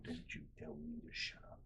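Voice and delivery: whispered threat mimicking the angry dad; menacing whisper. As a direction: hiss the threat low and deadly. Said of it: "He was so mad".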